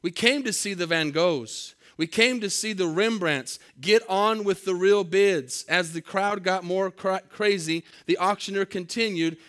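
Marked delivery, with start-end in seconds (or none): 0.0-5.6 angry shout. Retold or imitated. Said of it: "Another voice shouted angrily".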